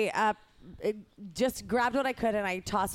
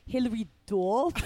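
put-on rough stab at a Boston accent; unconvincing Boston accent. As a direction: try the name in Boston dialect. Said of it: "can you read it in a Boston accent".

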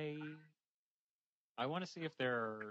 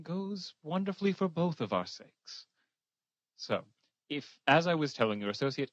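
louder, firmer push; insistent persuasion; 2 semitones higher, 7 dB louder than usual. Acted. Envoy pressing the kobold manager for the larder, louder. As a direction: lean in and insist, voice raised.

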